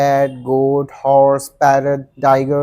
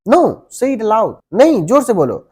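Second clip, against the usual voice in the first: firm demand; 5 semitones higher, 4 dB louder than usual. Acted. Teacher demands louder answer.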